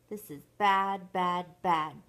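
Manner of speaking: loud, mildly wailed lament; Chucky wailing. Acted. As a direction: punch each repeated word, stepping downward. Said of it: "Chucky wailed".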